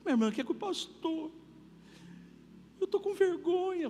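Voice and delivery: voz aguda e chorosa de irmã aflita; irmã chorando. Retold or imitated. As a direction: imitando uma irmã que chora ao telefone. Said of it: "tocou uma irmã chorando". (irmã liga chorando para o pastor, voz aguda e chorosa)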